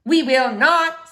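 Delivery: loud, slow flat refusal; stubborn refusal. Acted. Stevie refusing to go to the witch's house, loud and stubborn. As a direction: dig in your heels.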